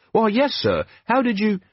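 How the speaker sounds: put-on eager young captain, respectful; lightly voiced earnest young man; Carrot, earnest young officer. Carrot speaking.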